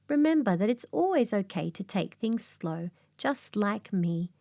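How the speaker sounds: drowsy, unhurried koala voice; slow it right down, half asleep; slow sleepy koala. Acted. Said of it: "he says in a slow, sleepy voice".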